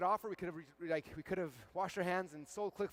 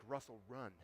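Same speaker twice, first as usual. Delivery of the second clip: acted voice of fear, starting hushed and building louder; fear freaking out; 3 semitones higher, 4 dB louder than usual. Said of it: "Fear starts freaking out".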